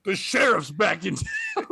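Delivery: slow, hammed-up lawman shout; mock sheriff shout. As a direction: bellow it like a movie sheriff strolling in. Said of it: "He goes".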